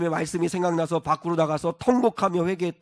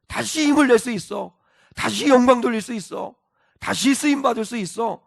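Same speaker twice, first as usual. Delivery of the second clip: louder, rising preacher's build; preaching at full force; 5 semitones higher, 6 dB louder than usual. Acted. Preacher urging believers to rise again, louder and fervent. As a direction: drive it home to the congregation.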